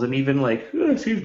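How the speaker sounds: talking through a yawn; words stretched by a yawn. Real, not acted. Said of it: "we're all yawning".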